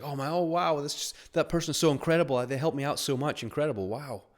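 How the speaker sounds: high-pitched imitation of a grateful waitress; awed gushing. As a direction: marvel as if overwhelmed by someone's kindness.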